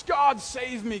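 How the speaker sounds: lightly hammed plea to the heavens; mock cry for help. Stuck wagoneer crying out to the gods, mock plea. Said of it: "he's crying out to the gods".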